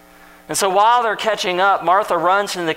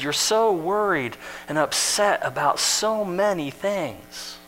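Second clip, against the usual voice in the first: kind, gentle observation; 4 dB quieter than usual. Retold or imitated. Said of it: "with compassion and kindness".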